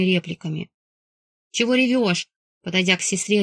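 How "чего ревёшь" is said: snapped. Acted. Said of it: "рявкнула я".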